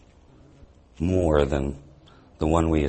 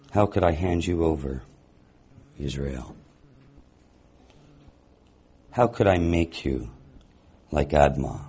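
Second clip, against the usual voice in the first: measured, deliberate Bible reading with long pauses; scripture reading. Acted. Teacher reading the prophet's words to the congregation, measured and solemn. Reads scripture aloud in sermon.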